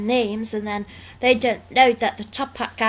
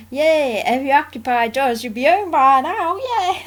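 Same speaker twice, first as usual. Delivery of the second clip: higher, louder chirpy yay; cheerful quote; 3 semitones higher, 4 dB louder than usual. Retold or imitated. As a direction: chirp it like a happy cartoon.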